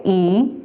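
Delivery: "ilusión" broken as i, lu, sión, long pauses; split into syllables. Shown as a demonstration. Teacher separating a word for learners, syllable by syllable. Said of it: "Cómo separaríamos la palabra ilusión".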